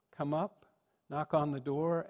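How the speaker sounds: ordinary talk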